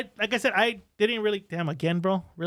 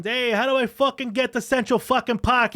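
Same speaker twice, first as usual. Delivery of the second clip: put-on Italian mobster accent; 5 semitones higher, 4 dB louder than usual. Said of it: "maybe I should have spoke to him like a soprano, like Italian".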